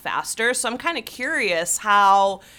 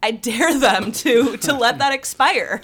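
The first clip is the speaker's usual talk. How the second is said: defiant dare; 4 semitones higher, 7 dB louder than usual. Real, not acted. Host daring Congress not to let tax cuts expire, defiant and loud. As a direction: throw down the dare at them.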